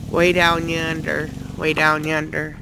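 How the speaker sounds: slow, drawn-out hillbilly accent. Shown as a demonstration. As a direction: lay on the hillbilly accent, slowly. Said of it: "I talk like a hillbilly".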